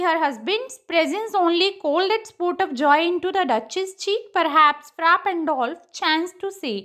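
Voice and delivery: slow, measured verse reading; poem recitation. Acted. Teacher reading Browning's monologue aloud to students, measured recitation. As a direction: recite it phrase by phrase.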